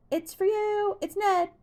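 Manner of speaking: high, loud call from the kitchen. A narrator's reading. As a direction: shout it through the house. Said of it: "Hannah called from the kitchen".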